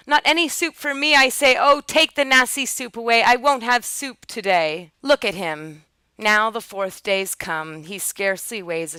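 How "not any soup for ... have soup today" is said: loud, raised storybook tantrum; high, insistent childish outcry; screamed refusal. A narrator's reading. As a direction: protest as loudly as you can manage. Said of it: "he screams as loud as he is able".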